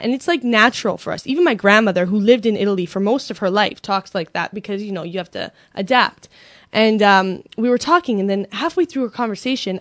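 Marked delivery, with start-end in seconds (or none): none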